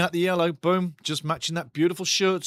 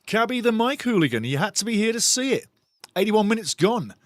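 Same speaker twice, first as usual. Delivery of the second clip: normal talking voice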